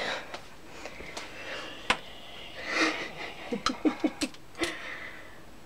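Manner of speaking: long, breathy laugh rising into high giggles; real laughing fit. Real, not acted. Makeup artist amused at how dead he looks, laughing. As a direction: laugh helplessly, mostly breath at first.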